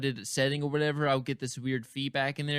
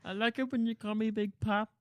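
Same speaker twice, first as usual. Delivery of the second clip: higher, playful seductive voice; mock seductive; 7 semitones higher, 3 dB quieter than usual. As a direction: tease it in a sultry voice. Joking seductive voice.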